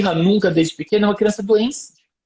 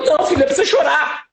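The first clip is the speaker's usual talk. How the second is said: laughing; 8 semitones higher than usual. Retold or imitated. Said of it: "Aí eu começo a rir".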